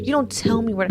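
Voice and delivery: put-on cowboy Texas accent, playful. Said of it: "Did you just do a Texas accent".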